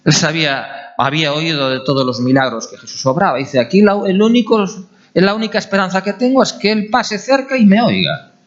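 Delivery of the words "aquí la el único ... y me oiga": pin everything on one last chance; urgent hope. Retold or imitated. Blind man hoping Jesus passes near, urgent hope.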